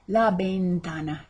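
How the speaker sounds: "ventana" starting with a b sound; teacher's model "ventana", its v said as b. Shown as a demonstration. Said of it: "the V is like a B".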